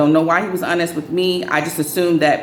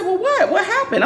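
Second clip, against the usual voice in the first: much higher, quick and giggly; eager curiosity; 13 semitones higher than usual. Retold or imitated. Asking her friend what happened to Doug, high and giggling. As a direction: beg for the news with a laugh. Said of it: "and I said".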